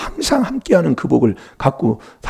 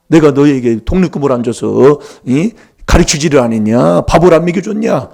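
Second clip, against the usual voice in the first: mock scolding; 3 semitones higher, 4 dB louder than usual. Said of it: "막 그러면서 큰 소리 치는 겁니다".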